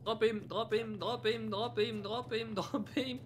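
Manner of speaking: high, urgent repeated command; urgent shouting. Real, not acted. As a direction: call it out fast and urgent.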